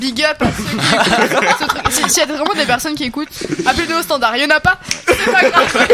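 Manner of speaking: laughing while joking; giggly mock broadcast shoutout. Real, not acted. Joking to imaginary listeners.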